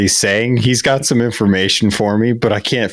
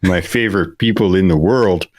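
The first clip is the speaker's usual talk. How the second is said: a friendly Midwesterner defending home; Minnesota accent. Retold or imitated. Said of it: "Midwestern accent".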